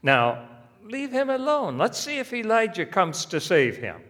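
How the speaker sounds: high, loud mocking jeer; scoffing. Sneer it out high and loud. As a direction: bystanders at the cross scoffing at Jesus, loud and high.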